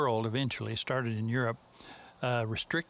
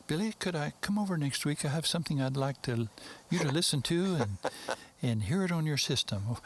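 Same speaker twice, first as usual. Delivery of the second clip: fake English accent; 3 semitones higher than usual. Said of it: "my fake English accent".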